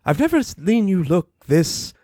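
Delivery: lightly voiced drawling fashionista; a hint of a grand lady, darling; posh Rarity voice. Rarity offering to decorate.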